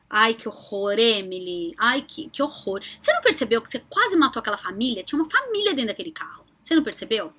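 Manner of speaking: a hint of a shocked, scolding sage; mock scolding Dalai Lama. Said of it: "O Dalai Lama olha pra sua cara e faz assim".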